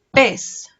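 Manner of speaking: "Pestañas" in three separate beats, first one loud; syllable by syllable. Shown as a demonstration. Teacher counting syllables with children, "Pestañas" syllable by syllable. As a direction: split "Pestañas" into pes, ta, ñas with clear gaps. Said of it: "¿Cuántas sílabas tienen las pestañas?".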